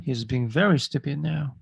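very slow, every word clear; slow model reading. Shown as a demonstration. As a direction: read it word by word for learners. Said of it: "teacher repeating slowly".

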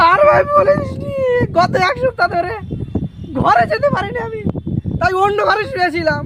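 hammed-up crying complaint; tearful whining. Husband moaning to his friend about home, tearful whining. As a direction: whine it through mock sobs. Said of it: "আর কাঁদিস না ভাই".

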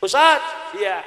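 put-on high, loud call of an elderly woman; old woman calling. Grandmother after the haul calls out to the ustadz, high plaintive voice.

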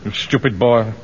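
laughing. Acted. Laughing reassurance to Pike.

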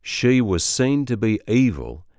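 very slow Alabama accent, gliding ee vowels; Alabama accent drill. Shown as a demonstration. Coach modelling the vowel change, slow Alabama accent. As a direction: slide into every ee, Southern-style. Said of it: "turns to".

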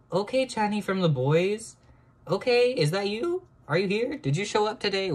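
high, loud squealing questions; excited squeal. Real, not acted. Greeting her drawing as Chanhee, high excited squeal.

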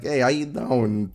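Bronx greeting. Pretend. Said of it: "I can be like".

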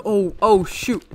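panicked. Real, not acted. Game mobs overwhelm the player.

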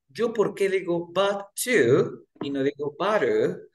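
slow, but to with t clear; stressed but to vs butter. Shown as a demonstration. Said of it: "yo estoy estresándola".

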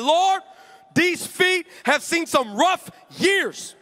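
high, slow, laughing prayer over the feet; laughing mock prayer. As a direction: pray it half laughing, stretched out. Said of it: "I said".

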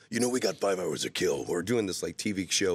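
lightly voiced movie trailer announcer; a hint of the movie preview voice; movie trailer guy. Don LaFontaine inviting him over, lightly done trailer voice. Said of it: "the voice preview guy".

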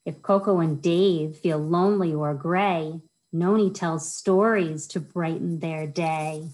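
lilting rhyme-reading voice, bouncing on each rhyme; reading to children. Acted. Children's librarian reads a rhyming book to kids, sing-song storytime voice. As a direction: read it like storytime for little kids.

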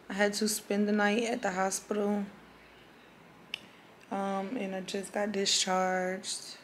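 hoarse after surgery; raspy voice. Real, not acted. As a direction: speak through a raw, raspy throat. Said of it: "my voice is, like, really raspy right now".

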